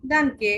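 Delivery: "ডানকে" with an open "ah" after the D; German pronunciation. Shown as a demonstration. Teacher joining D and A for learners, German pronunciation. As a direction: sound out "ডানকে" as DAHN-keh. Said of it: "ডি এর সাথে আ".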